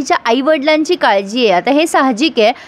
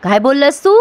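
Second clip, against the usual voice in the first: dramatic. Retold or imitated. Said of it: "आता कुकी फार drama करतोय".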